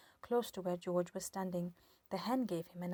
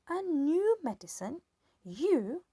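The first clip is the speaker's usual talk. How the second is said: put-on old woman yelling; 6 semitones higher, 5 dB louder, slower than usual. A narrator's reading. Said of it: "she yelled".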